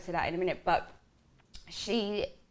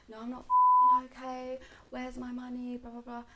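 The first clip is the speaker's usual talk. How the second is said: higher-pitched mock outrage, softening as it goes; retold indignant reply; 5 semitones higher than usual. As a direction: replay snapping back at the manager. Retold angry reply to manager.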